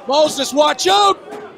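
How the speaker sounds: shouted warning. Real, not acted. Commentator warns wrestler.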